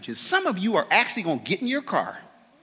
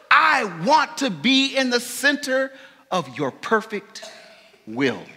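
earnest prayer. Real, not acted. Preacher praying aloud to the Father, fervent and rising. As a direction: pray it out, rising in intensity. Prayer to God before the remnant.

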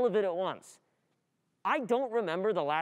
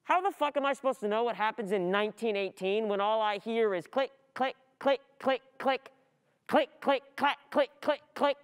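rising frustration; 4 semitones higher than usual. Acted. Overwhelmed by clicking noises.

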